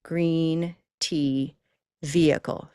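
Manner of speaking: GREEN, TEA, VEHICLE spaced out with long EE; word-by-word demo for repeating; model pronunciation. Shown as a demonstration. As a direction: separate each word, holding the ee. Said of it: "Try that".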